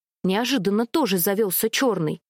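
ordinary delivery

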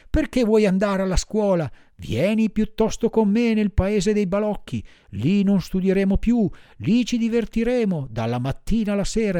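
high, insistent puppet voice; self-justifying boy puppet, mounting energy; pleading puppet boy. A narrator's reading.

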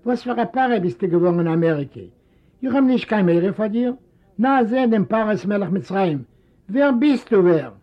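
lightly voiced indignant old man; indignant old father. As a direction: spit the questions at him. Father scorns son again.

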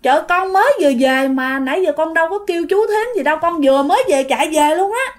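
mildly flustered denial; acted puzzled self-defence; dumbfounded neighbour. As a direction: protest innocence, a little baffled. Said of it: "Thì lúc này chị này ngớ người".

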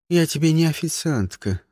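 ordinary delivery

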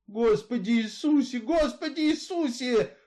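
put-on high, strained old woman's voice, like swearing; the words burst out as a curse, not a prayer; grandmother's strangled cry. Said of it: "услышала она свой голос". (высокий сдавленный старушечий вскрик)

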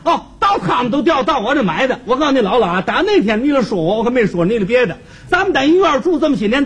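huffy comic protest, pitch rising; mock-outraged neighbour rant; worked up. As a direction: protest indignantly, as if insulted. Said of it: "他可急了".

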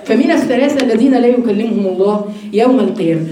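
normal talking voice

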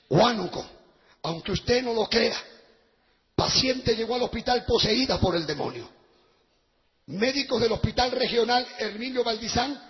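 even, measured article read; newspaper reading. Real, not acted. Preacher reads the article to the congregation, measured reading. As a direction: read the report out plainly.

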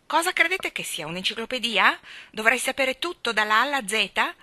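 loud, high, scornful retort; gruff. A narrator's reading. Mary Poppins answering the children's question, loud and gruff. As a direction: snap back with contempt. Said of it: "domandò burbera".

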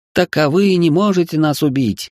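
high frightened squeak. A narrator's reading. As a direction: squeak it out in fear. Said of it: "пискнула испугавшаяся девчонка".

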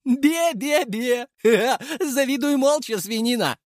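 put-on high, slow childish "бе-бе-бе" then giggle; mocking tease. A narrator's reading. Leshy teases jealous Artyom, high and childish. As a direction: taunt him like a cheeky kid. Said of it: "передразнил его Леший".

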